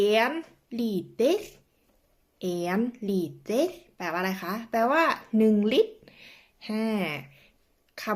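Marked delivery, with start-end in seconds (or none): 0.1-4.5 En liter said slowly with Norwegian sounds; Norwegian phrase demo. Shown as a demonstration. Teacher slowly modelling En liter for viewers. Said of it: "ต่อมา".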